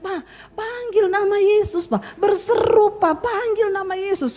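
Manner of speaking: retold urgent cry. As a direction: imitate a wife urging her dying husband. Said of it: "dia teriak".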